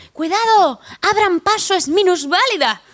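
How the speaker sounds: grito agudo y fuerte del portero, imitado. Retold or imitated. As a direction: anuncia a voces que abran paso, imitando. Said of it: "un puertas que grita". (portero de discoteca abre paso a gritos a la cola: grito agudo imitado)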